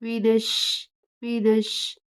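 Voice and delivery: मीनश with ش joined firmly to न; मीनश said with the doubled ش stressed; firm joining. Shown as a demonstration. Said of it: "मजबूती से आप मिलाएंगे".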